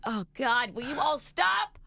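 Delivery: exasperated, imitated outburst; retold exasperation. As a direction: plead like a fed-up mom.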